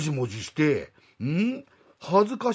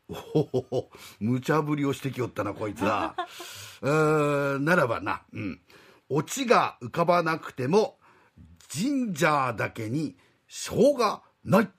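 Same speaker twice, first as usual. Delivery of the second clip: put-on old god voice; 2 semitones lower than usual. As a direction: speak as a doddering old god. God delivers pun.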